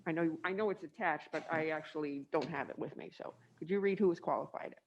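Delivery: muffled through a mask and braces; talking around braces behind a mask. Real, not acted. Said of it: "I can't talk with a mask on and braces".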